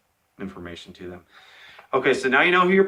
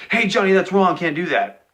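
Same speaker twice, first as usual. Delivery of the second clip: mock yell; 7 semitones higher, 3 dB louder than usual. Shown as a demonstration. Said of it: "do I yell and say".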